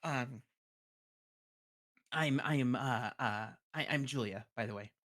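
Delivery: embarrassed scribe. Acted. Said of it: "smiles and nods and just goes".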